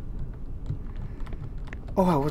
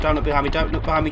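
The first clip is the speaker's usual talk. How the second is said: hurried muttering; 3 semitones lower, faster than usual. Real, not acted. Urging self during chase.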